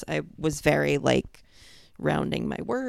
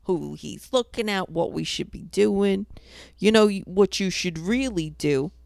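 put-on New York accent; New Yorker spiel; 3 semitones higher than usual. Bonding with a hardcore customer, thick New York accent. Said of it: "The New Yorker spiel comes out".

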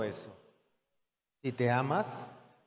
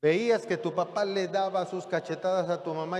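predicación enfática; 2 semitones higher than usual. Acted. Predica con fuerza.

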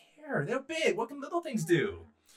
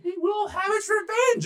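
very high, loud, slow rabbit warning; shrill little rabbit prophet, words stretched out; 10 dB louder, slower than usual. Acted. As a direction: squeal a dire threat like a tiny rabbit. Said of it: "And the rabbit said".

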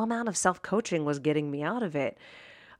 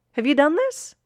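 higher and louder; emphatic repeat; 9 semitones higher, 5 dB louder than usual. Real, not acted. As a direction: ask again, pressing the listener.

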